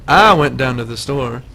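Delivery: Southern "I", said as "ah"; demonstrated Southern vowel; Southern accent. Shown as a demonstration. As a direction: show off a Southern "I" in the sentence. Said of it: "when I say an I".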